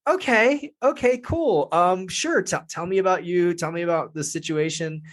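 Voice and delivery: high, deflated okay, wind out of his sails. Retold or imitated. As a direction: sound let down but polite. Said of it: "all the wind went out of my sails".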